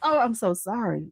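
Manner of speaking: soft stuffy apology; quiet after the sneeze; congested. Real, not acted. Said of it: "I'm super congested".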